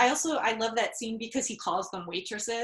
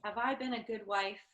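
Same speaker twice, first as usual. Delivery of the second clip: much softer, quiet; soft acted line; 3 semitones lower, 7 dB quieter than usual. Wife quietly confronting her husband in a movie scene.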